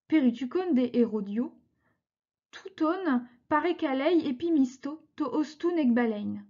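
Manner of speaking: put-on careful, measured reading of an old text; reading Ancient Greek aloud. Teacher reads Aesop's Greek original to students, measured.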